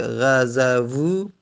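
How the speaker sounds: غزوو said slowly with each vowel drawn out; slow spelled-out form. Shown as a demonstration. Teacher explaining the original form, slowly sounding out غزوو. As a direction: drag out غزوو for the learners. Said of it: "قبلاً بوده".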